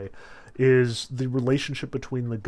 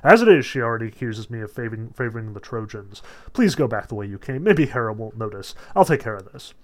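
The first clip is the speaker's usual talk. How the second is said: flustered Zeus; 5 dB louder, faster than usual. Retold or imitated. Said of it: "So he says".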